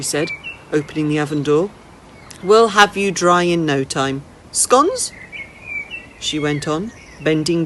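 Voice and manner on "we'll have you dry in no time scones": put-on an old lady teasing a runaway boy, then inviting him in; lightly voiced old lady.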